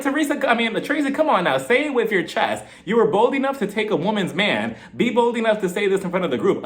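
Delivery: high-pitched, insistent telling-off; exasperated challenge. Retold or imitated. Host urges Tracy to speak up, exasperated. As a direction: call the whisperer out. Mock scolding a whisperer.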